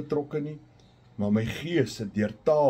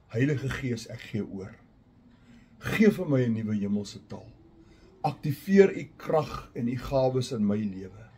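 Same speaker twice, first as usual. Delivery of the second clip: hushed, surrendering prayer voice. Shown as a demonstration. Models a prayer to the Spirit.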